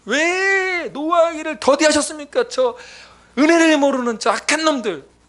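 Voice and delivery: loud, high, slow furious complaint to God; angry ranting prayer. Retold or imitated. Pastor retelling his angry prayer to God, furious rant. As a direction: rail at God in a rage. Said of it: "욕을 하면서 막 던져버리고".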